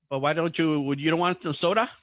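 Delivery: put-on puzzled question in a mild Hispanic accent; imitated Hispanic accent. Drive-thru lady asking about soda, in a light Hispanic accent. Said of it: "in that accent".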